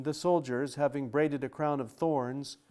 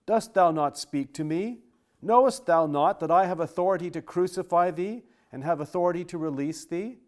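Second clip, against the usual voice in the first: Pilate demanding; 4 semitones higher, 7 dB louder than usual. Acted. Pilate pressing a silent prisoner.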